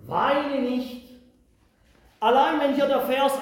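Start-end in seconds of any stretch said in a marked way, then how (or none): 0.1-1.1 elder's comfort, repeated. A narrator's reading. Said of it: "einer von den Ältesten spricht zu mir".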